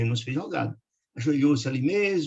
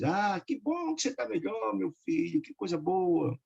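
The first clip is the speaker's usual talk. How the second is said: happy relieved wife; 6 semitones higher, 4 dB quieter, slower than usual. A narrator's reading. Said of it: "sorriu feliz".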